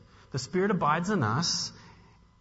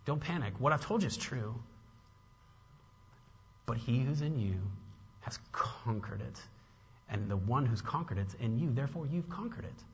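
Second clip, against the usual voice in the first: softer, gentle reassurance; pastoral comfort; 3 semitones lower, 7 dB quieter than usual. Retold or imitated. Pastor telling his flock not to panic, soft and gentle. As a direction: soothe them like a shepherd. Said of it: "this pastoral heart".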